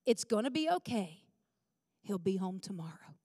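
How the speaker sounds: lightly imitated calm, steady reassurance; husband reassuring. Wife repeating her husband's comfort, mildly soothing and unhurried. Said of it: "what my husband said".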